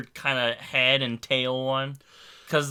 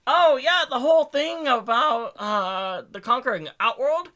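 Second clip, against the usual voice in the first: witch voice; 10 semitones higher, 5 dB louder than usual. Acted. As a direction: voice her like a scheming witch. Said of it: "you're making her sound like a witch".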